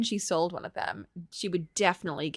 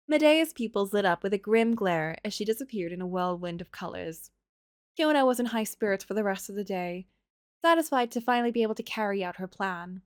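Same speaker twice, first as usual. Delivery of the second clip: calm storybook narration; story narration. A narrator's reading. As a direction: read it like a fairy tale. Reads the game's story.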